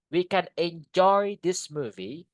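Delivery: "enjoy" stands out, with "joy" stretched; stress on second syllable. Shown as a demonstration. Teacher giving an example sentence, stress on "joy" in "enjoy". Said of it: "Penekannya di joy-nya".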